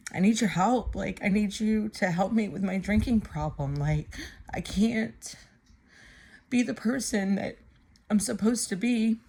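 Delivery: understated imitation of a tearful prayer; retold desperate plea. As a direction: retell begging God for help, a touch desperate. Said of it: "started crying to God".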